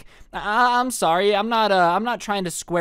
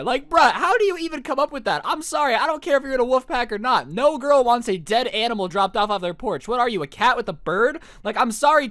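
high-pitched, exasperated mock rant; comically appalled, pitch riding high; incredulous scolding; 5 semitones higher than usual. Mock scolding of wolf boy.

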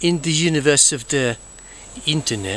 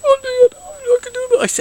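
Stan Laurel; 3 dB louder than usual. Retold or imitated. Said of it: "did the Six O'Clock Show as a Stan Laurel".

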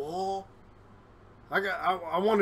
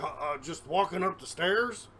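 mildly winded, halting reply; a touch breathless on the phone; out of breath; 5 dB quieter than usual. Retold or imitated. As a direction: stammer it as if climbing stairs. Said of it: "I'm like".

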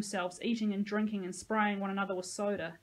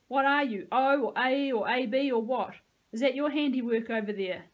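menacing; 4 semitones higher, 7 dB louder than usual. Acted. Peyton interrogating Dean.

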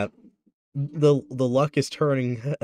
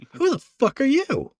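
loud, high, hostile challenge; angry shout; 11 semitones higher, 4 dB louder than usual. Acted. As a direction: yell it at the stranger. NPC pirate confronting the party.

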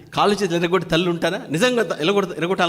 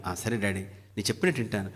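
meek obedient son; 9 semitones lower, 10 dB quieter than usual. Retold or imitated. Obedient son answering father.

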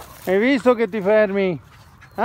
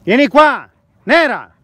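talking to a dog. Real, not acted. Calling the dog outdoors. (richiamo al cane, forte e acuto)

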